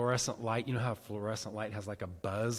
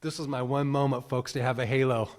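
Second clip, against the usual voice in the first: excited aside; 7 dB louder than usual. Retold or imitated. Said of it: "I was like".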